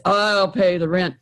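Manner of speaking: hint of a confident hero; lightly voiced hero. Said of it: "the hero says".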